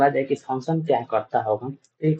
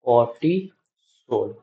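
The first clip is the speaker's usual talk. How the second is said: कॉर्टिसोल stretched out slowly, each syllable drawn; 3 semitones lower, much slower than usual. Shown as a demonstration. Teacher repeating the answer for students to copy, slowly. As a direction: draw out कॉर्टिसोल slowly for the class. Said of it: "उसका नाम क्या होता है?".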